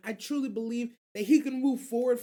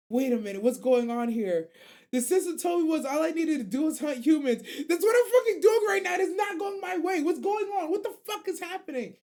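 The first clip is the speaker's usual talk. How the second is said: high, loud frantic orc yelling in confusion; panicking orc mage; 7 semitones higher, 4 dB louder than usual. Retold or imitated. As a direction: freak out like a monster losing the fight.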